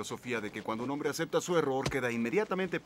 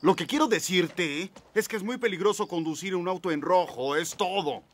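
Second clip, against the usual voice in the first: rising anger; 3 semitones higher, 5 dB louder than usual. Acted. Warning he'll explode.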